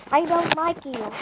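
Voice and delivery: a touch of cross yelling. A narrator's reading. Kipper turns on the magic key, mild yell. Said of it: "he yelled".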